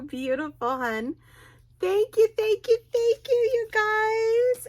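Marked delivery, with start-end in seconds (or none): 1.8-4.7 much higher, louder thank-yous; excited thanks. Real, not acted. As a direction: squeal thanks to your viewers. Closing thanks to viewers.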